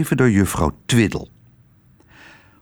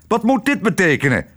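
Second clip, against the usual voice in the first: put-on higher, indignant shout of an old admiral; angry outcry; 8 semitones higher, faster than usual. A narrator's reading. Admiral outraged at his pancakes, higher angry shout. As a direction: bark it out like an offended officer. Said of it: "werd hij kwaad".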